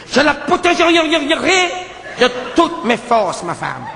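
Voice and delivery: slow, solemn hero vow; protecting hero. Retold or imitated. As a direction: drag out each word like a grand oath. Hero declares protecting his wife. (serment solennel et lent)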